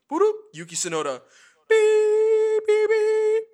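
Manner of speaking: high beeping bleeps over swearing; censored radio beeps. Retold or imitated. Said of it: "Yuki's on team radio, goes".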